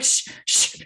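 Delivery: hushed shh under the breath; whispered shushing. Retold or imitated. Mother hushing her children about another mom, whispered shh. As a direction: hush the kids so nobody overhears.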